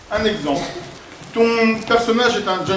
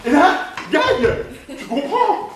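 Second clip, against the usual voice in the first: laughing; 4 semitones higher, slower than usual. Real, not acted. Demo punchline with laugh.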